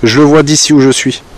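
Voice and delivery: loud, fast call to the spirits. Real, not acted. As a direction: project it out into the dark. Calls out to spirits outdoors.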